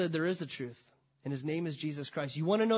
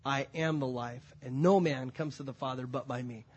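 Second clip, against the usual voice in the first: Jesus answering Thomas, calm and low; 5 semitones lower than usual. Acted. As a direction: give the answer gently and low. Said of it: "And Jesus said to him".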